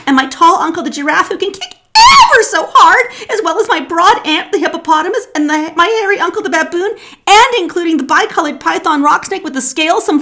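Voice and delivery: high, loud, rising complaint; pleading little elephant, building to a wail; elephant's child. A narrator's reading. Child's long anxious complaint.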